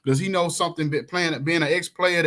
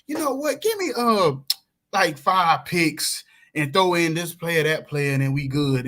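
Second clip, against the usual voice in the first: sly trade pitch. Pretend. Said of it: "be like".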